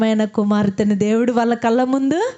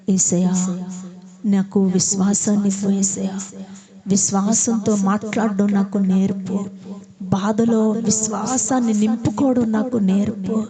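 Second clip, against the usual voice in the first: earnest prayer; 3 semitones lower than usual. Acted. Pastor voicing the congregation's prayer, earnest and pleading. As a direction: pray it for the whole church.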